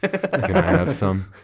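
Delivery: high, drawn-out, loud little plea; pleading. Acted. Player character asking friend for a snack, high pleading voice. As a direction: beg for a bite, high and slow.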